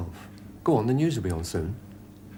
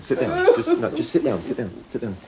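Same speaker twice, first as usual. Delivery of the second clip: urgent; 13 semitones higher, 4 dB louder than usual. Acted. Policeman calming a panicked hostage.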